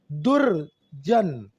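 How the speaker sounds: दुर्जन drawn out very slowly, the र clearly sounded; slow syllable demo. Shown as a demonstration. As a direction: stretch दुर्जन slowly so the र is heard. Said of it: "रे कहाँ बोलेगा उस पर depend करता है". (दुर्जन को धीरे-धीरे, र साफ़ बोलते हुए)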